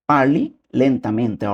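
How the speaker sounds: parli lentamente drawn out very slowly; slow demo. Shown as a demonstration. Teacher modelling parli lentamente very slowly for viewers. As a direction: spell out parli lentamente syllable by syllable. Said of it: "teacher repeating Italian phrase".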